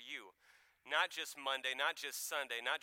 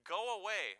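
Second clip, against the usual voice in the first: a raised, higher cry from the possessed man; demon's cry; 7 semitones higher, 5 dB louder than usual. A narrator's reading. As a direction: cry it out, a touch higher and louder. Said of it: "He cried out at the top of his voice".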